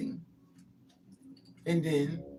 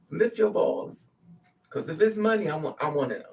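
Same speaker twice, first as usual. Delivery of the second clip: louder, insistent order; loud demand; 5 dB louder than usual. Retold or imitated. Searching Jose for her money, a loud demand. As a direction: bark the demand at him.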